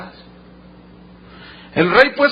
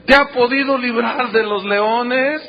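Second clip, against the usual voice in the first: raised, pleading call, drawn out at first; mournful calling out; 5 semitones higher, slower than usual. Acted. Anguished king asking if God saved Daniel, sorrowful calling voice. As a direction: cry the question out with mild anguish. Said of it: "llamó a voces a Daniel con voz triste".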